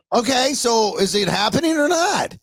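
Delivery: high-pitched, dragged-out mock slur; slurring mother. Mother answering her son on the phone, slurring. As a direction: imitate a woozy mother, pitched well up. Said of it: "She's slurring her speech".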